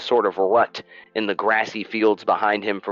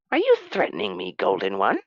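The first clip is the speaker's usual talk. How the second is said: indignant merchant. Acted. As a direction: squawk back in offended disbelief. Niven bristles.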